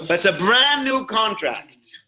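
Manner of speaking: deliberate emphatic line; slow emphasis. Shown as a demonstration. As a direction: drive home brand new slowly. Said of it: "emphatic repeat".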